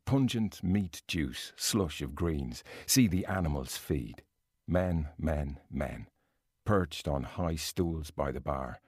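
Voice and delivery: self-confessed bad Irish accent, reading slowly; a hint of an Irish accent, unhurried reading. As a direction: read Joyce in a lightly put-on Irish lilt. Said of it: "I'm gonna do it in a really bad Irish accent".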